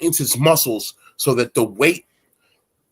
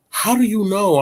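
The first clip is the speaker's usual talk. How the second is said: put-on girlfriend voice; 8 semitones higher than usual.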